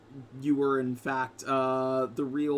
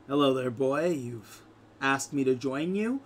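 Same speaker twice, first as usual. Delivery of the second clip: smooth devil voice. Acted. Demon greets Shanum.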